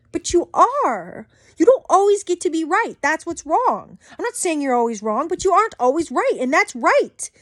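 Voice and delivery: a real angry lecture; heated rant. Real, not acted. Ranting at book followers.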